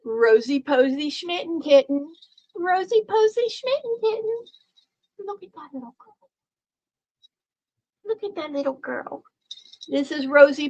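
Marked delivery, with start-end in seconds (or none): 0.0-9.2 cooing pet voice, pitched up. Real, not acted. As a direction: coo the kitten's name lovingly. Cooing at the kitten.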